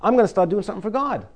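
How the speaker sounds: fast, eager re-take of the vow; eager resolve. Retold or imitated. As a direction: rattle it off like a keen new convert. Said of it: "Who wants to do that anyway".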